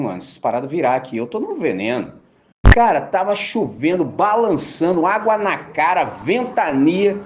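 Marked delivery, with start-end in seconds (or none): 0.0-2.1 quick worried muttering to yourself; mock scared thought. Preacher imitating a man eyeing the water, fast and worried. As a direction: rattle it off fast like a nervous guy in a tiny boat. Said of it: "você olha pra água e fala".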